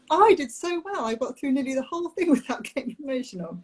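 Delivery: fighting back tears, laughing at herself through them; getting emotional. Real, not acted. On a podcast, telling the interviewer about grieving a failed IVF round, tearful laugh. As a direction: voice rising and wobbling into a tearful laugh. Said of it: "so I'm gonna get emotional".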